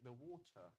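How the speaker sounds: "water" with an audible crisp t; radio-proper "water", t sounded and r silent; t comes out. Shown as a demonstration. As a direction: pronounce the t in "water" carefully. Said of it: "that t-, the tea comes out".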